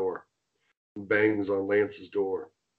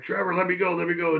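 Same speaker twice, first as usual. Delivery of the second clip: much higher, mock pleading; imitating Cena pleading; 8 semitones higher, faster than usual. Cena pinned in a face lock, begging Trevor to let go, in a much higher voice. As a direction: squeal it like a pinned wrestler begging. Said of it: "Cena's like".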